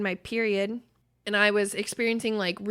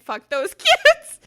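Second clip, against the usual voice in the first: much higher and louder, laughing through it, slow; laughing quote; 10 dB louder, slower than usual. Retold or imitated. Mom re-quoting her daughter while laughing. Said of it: "she meant it".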